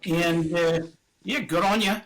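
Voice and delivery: put-on light Australian accent, rising lilt; a friendly Australian accent shout-out. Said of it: "give a shout out to the Australian audience with your Australian accent".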